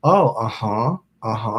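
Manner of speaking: low, rising uh-huh; a low murmured acknowledgement, lifting at the end; anchoring uh-huh. Shown as a demonstration. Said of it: "I think I did it like that".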